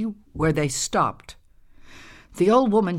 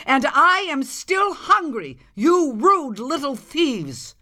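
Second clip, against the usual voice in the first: indignant scolding; 5 semitones higher than usual. Acted. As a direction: scold them, climbing higher. Old woman scolds the thieving Onis.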